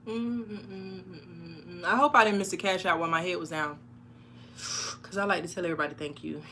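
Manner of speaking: talking while chewing gum; words round a wad of gum. Real, not acted. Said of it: "You can't talk and chew bubblegum".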